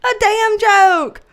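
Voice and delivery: loud, high and slow; drawn-out loud exclamation; emphatic punchline. Real, not acted. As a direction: belt it out slowly for comic emphasis.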